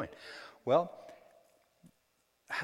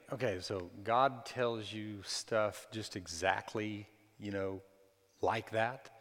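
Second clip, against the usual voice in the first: mock skeptic; 4 semitones lower, slower than usual. Mocking what people think.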